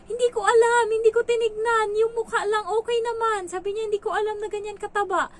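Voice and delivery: high, loud, defensive protest; flustered excuse. Retold or imitated. Employer defends herself to her mother.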